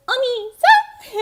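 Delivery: high, loud, slow cutesy call; roommate's call. Retold or imitated. Telling chat about a favorite video, imitating the roommate's high, drawn-out cry. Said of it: "the way the roommate, who is a dude, says".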